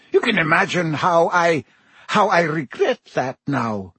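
a hint of a stern teacher, regretful; stern but catching on the regret; lightly voiced strict professor, remorseful; McGonagall's voice. McGonagall grieves, voice thickening.

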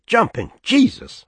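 drummer's high astonished near-shout; almost shouting. A narrator's reading. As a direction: blurt it out in amazement. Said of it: "The men in the pig were almost shouting".

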